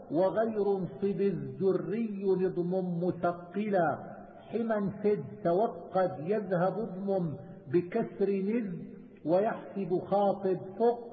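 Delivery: slow, drawn-out recital of didactic verse; verse recitation. Acted. Teacher reciting a verse on Quran readings, measured recitation. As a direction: recite the poem in measure, stretching the long syllables.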